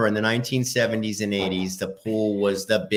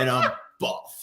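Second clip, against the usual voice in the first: laughing; slower than usual. Real, not acted. Joking about his weight.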